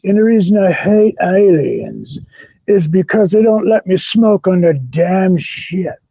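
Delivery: slow, theatrical diva rant; campy drag queen. Pretend. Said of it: "Come on, be like".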